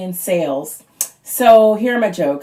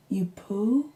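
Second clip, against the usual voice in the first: put-on toddler question; 8 dB quieter than usual. Toddler asks about fart.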